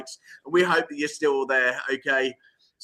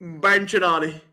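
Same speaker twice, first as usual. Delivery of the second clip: French voice. Shown as a demonstration. Host prompting co-host with his own modest French voice. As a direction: have a go at a French accent. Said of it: "In your French voice".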